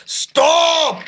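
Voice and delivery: loud, high yell to halt; sudden high-pitched command; alarmed shout. Real, not acted. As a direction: shout to stop it at once. Train derailing.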